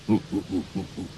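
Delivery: quiet fading ape ooh-ooh; playful ape calls; soft ape hoots. Shown as a demonstration. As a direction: hoot softly like an ape. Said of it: "ape sound for kids".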